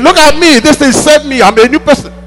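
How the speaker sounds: lightly voiced, lifted with joy; Paul proudly pointing at himself; a hint of Paul exulting. Preacher voices Paul's testimony.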